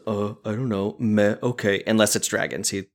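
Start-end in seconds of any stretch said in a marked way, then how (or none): 0.1-1.8 soft, noncommittal mumble; indifferent kid. Retold or imitated. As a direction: imitate a kid who couldn't care less. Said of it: "anything you ask him about".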